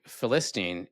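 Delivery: put-on Philistine said fi-LIS-teen; stress on second syllable. Shown as a demonstration. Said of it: "put the emphasis on the wrong syllable".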